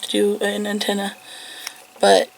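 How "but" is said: talking around a cough drop; words round a lozenge; cough drop in mouth. Real, not acted. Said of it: "Sorry if you hear me with a cough drop in my mouth now".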